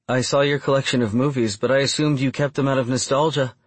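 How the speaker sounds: hint of a curious woman in dialogue; lightly voiced Bryn. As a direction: raise the pitch a little for her curious line.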